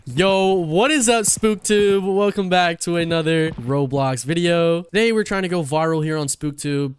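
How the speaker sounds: upbeat vlogger intro; YouTuber intro. Pretend. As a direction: hype it up like a YouTuber. Fake vlog intro.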